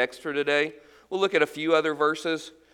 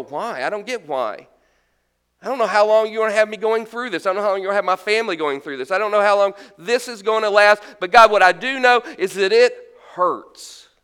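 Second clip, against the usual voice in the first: mild pained prayer; 2 semitones higher, faster than usual. Retold or imitated. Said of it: "I look at God and I go".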